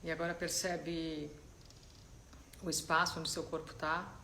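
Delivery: calm, unhurried guidance with long silences; soft-spoken meditation leader, letting each instruction settle; guided meditation. Real, not acted. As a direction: ease them gently into stillness, leaving space between phrases.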